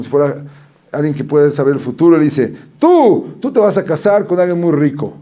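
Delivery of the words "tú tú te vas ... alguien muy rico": prophesy in a hammed-up fortune-teller tone; girl playing gypsy at recess predicting a rich husband, mock seer. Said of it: "a hablar como si fuera una gitana".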